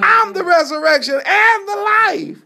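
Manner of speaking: booming preacher's proclamation, high and loud; proclaiming loudly. Acted. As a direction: declare it like the voice of God. Jesus proclaiming to Mary.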